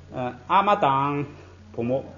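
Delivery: the casual, effortless version; lazy colloquial form. Shown as a demonstration. Teacher imitating how lazy speakers say it, unaspirated. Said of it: "他发堂送气，费劲儿".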